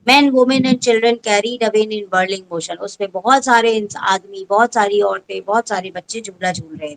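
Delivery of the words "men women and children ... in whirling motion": reads each English word very slowly for the class; a teacher reading the story line to pupils, slow and deliberate; slow textbook reading. Shown as a demonstration.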